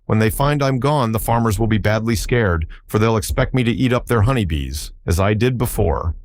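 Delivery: lightly voiced beast, proud of its growl; Woozy voice. The Woozy boasting to Oho about its growl, mildly creature-voiced.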